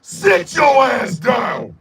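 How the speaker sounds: mock arrogant. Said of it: "Here's Mississippi".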